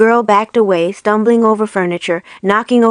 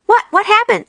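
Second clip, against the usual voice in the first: pitiable stalling; 12 semitones higher than usual. Acted. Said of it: "pitiably playing for time".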